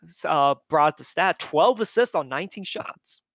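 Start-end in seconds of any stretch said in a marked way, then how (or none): 1.4-3.2 burping the words. Real, not acted. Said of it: "sorry for the burp".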